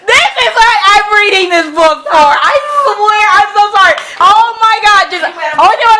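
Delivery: high, loud fangirl outburst; overexcited gushing. Real, not acted. Fan reaching the part she reads for, overexcited gushing. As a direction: gush loudly, barely keeping it together.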